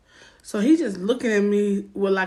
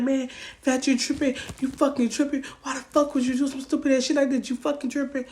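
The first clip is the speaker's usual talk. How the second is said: raised, fast complaint in his voice; boyfriend's mock outrage at her; imitating his angry protest; 3 semitones higher than usual. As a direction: play him outraged and bewildered. Boyfriend yelling back in argument.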